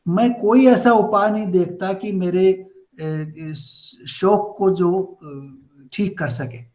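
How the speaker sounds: brisk Hindi verse reading, fast; scripture reading. Acted. Teacher reading Arjuna's words from the Gita, quick recitation. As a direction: rattle off the translated verse quickly.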